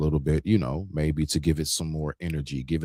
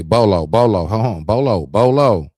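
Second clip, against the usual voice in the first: loud, higher repeated calls of Bolo; calling out; 4 semitones higher, 10 dB louder than usual. Retold or imitated. Cutting in on Bolo to get his attention, loud calls. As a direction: grab someone's attention across the room. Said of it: "If I had to say".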